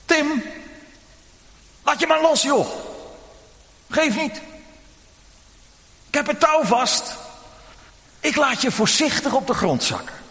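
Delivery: a dad reassuring from below; reassuring father. Acted. Father below calls up to Tim, calm and reassuring. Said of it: "de stem van zijn vader".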